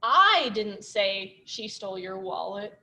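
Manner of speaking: "I" hit hardest, the rest slow and even; stress on I. Shown as a demonstration. Teacher showing the stress game, weight on "I". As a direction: lean on the word "I". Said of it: "stressing all the different words".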